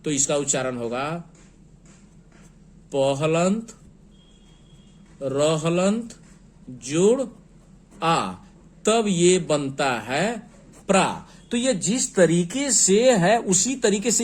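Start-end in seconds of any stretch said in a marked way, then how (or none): 2.9-11.1 पहलंत, रहलंत, जोड़ आ spelled slowly with long pauses, then प्रा blended; letter-by-letter breakdown. Shown as a demonstration. Teacher spells प्रा letter by letter for the class. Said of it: "अगर हम वर्ण विच्छेद करेंगे".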